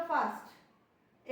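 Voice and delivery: "फास्ट" said in one beat, then a stop; "फास्ट" in a single push, pause after; one-beat word. Shown as a demonstration. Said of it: "एक बार में ही रुक गई".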